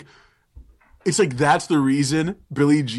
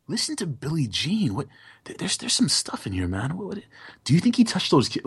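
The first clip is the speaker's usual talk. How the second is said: questioning tone; 4 semitones higher than usual. Retold or imitated. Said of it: "What if he's actually saying".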